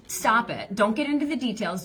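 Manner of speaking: usual speaking voice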